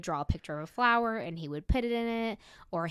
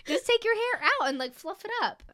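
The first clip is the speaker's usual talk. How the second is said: laughing; 5 semitones higher, 7 dB louder than usual. Real, not acted. Teasing friend about hair.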